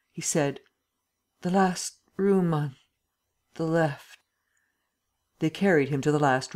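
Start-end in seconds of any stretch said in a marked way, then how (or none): 1.4-4.2 slow, halting, effortful directions; groggy. A narrator's reading. Drugged Lupin points his bearers to the room, groggy. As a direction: drag the words out with gaps.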